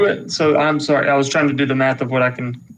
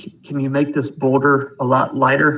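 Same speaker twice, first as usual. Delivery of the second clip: whispering softly. Asking a party member in character to lighten the boulder: whispering quietly. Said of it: "kind of whisper quietly to him".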